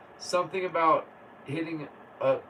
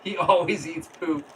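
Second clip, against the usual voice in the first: laughing while talking, a bit louder; laughing through words; 4 dB louder than usual. Real, not acted. Laughing as she tells viewers about the puppy. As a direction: giggle through the line.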